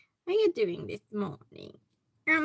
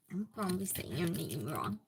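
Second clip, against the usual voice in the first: whisper; 7 semitones lower, 6 dB quieter than usual. Real, not acted. Aside to viewer about name.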